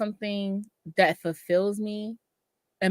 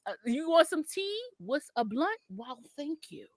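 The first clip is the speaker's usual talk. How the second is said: mock polite exchange; 5 semitones higher, 9 dB quieter than usual. Acting out polite exchange in Amsterdam.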